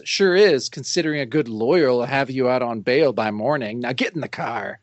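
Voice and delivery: unimpressed, world-weary cop delivery; cynical cop. Retold or imitated. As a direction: act a jaded policeman, dropping off at the end. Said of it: "I love the cynical cop".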